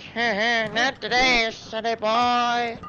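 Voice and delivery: put-on hillbilly accent. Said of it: "He's like".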